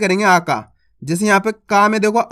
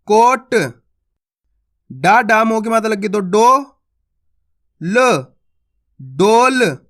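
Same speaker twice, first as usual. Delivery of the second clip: teacher's reading drill; slower than usual. Shown as a demonstration. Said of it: "तो चलिए कैसे पढ़ेंगे".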